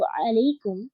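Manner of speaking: अलैकुम whispered, falling at the end; whispered word. Shown as a demonstration. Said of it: "यहाँ पे जमा मुज़क्कर हाजिर". (अलैकुम को फुसफुसा कर बोलें)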